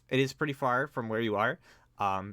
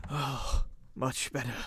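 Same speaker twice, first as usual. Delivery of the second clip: relieved, breathed-out words; sigh of relief; 3 semitones higher, slower than usual. Acted. Man pours water on his skin, sighing relief. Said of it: "sigh of relief".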